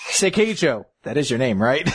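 feigned uncertainty over the name; imitating a subtle put-down; understated shade. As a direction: toss a light, innocent dig at her. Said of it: "understated shade throwing she just did".

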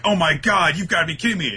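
hammed-up dismay; mock disbelief. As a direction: play the shocked heroes. Voicing the characters' dismay.

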